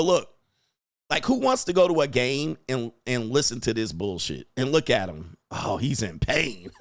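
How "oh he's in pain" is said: mock pity. Mocking the suffering boyfriend.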